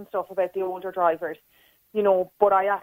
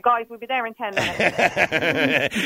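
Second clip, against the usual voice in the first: limo driver announcement; much slower than usual. Pretend. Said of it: "shut them off in the back and say".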